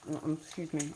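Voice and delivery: talking with a mouthful of food; mouth full. Real, not acted. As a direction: chew and talk through a mouthful. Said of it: "I have food in my mouth".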